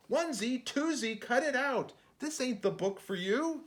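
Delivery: mock stern narrator. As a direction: cut it out, a touch annoyed. Narrator scolds creatures.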